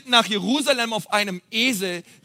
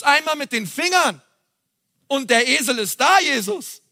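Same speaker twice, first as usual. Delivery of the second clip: mock incredulity; 3 semitones higher than usual. Preacher questions Jesus about needing a donkey, playfully incredulous. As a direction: challenge him with playful disbelief.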